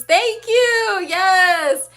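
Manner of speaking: high, drawn-out grateful cheer; delighted thanks. Real, not acted. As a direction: thank them with a happy burst. Thanks a complimentary commenter.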